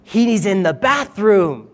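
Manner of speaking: mock the false prophets like a heckler; mocking taunt. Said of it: "he starts mocking them".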